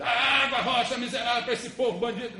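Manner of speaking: hammed-up tirade at a stubborn rock; mock angry scolding. Preacher voicing Moses yelling at the rock, mock fury.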